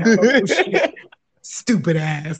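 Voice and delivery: laughing hard through it; real laughter at her friend's joke. Real, not acted. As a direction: crack up, drawn out.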